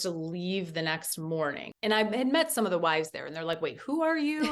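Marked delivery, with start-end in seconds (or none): 3.6-4.5 surprised laughing question. Retold or imitated. Wives surprised to meet her.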